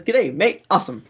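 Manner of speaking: a touch of fake Australian accent; bad Australian accent. Host reading another Canadian listener's review, bad Australian accent. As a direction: badly imitate an Australian accent. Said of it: "a bad Australian accent".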